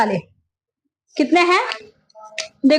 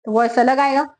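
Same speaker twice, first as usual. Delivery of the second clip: voicing a big flute with a slightly lower tone; teacher shows how a big flute sounds, a touch lower; 3 semitones lower than usual. Shown as a demonstration. Teacher demonstrating a big flute to students, slightly lower tone. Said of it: "अगर वो flute बहुत ज्यादा बड़ा है".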